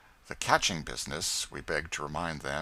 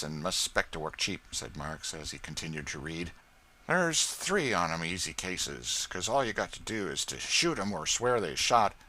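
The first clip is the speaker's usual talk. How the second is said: scheming lawyer; 5 dB louder than usual. Acted. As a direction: talk business slyly. Marks discussing cases.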